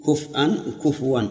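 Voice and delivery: slow كفءا with a glottal stop, then كفوا with waw; readings compared. Shown as a demonstration. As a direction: set كفءا against كفوا, slowly. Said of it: "اللي عندي".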